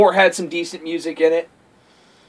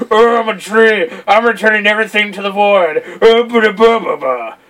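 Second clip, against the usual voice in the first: lightly voiced mock tree monster; a hint of hammy villain booming; mock villain speech trailing into nonsense; Exdeath; 2 semitones higher than usual. Voicing Exdeath as a giant tree.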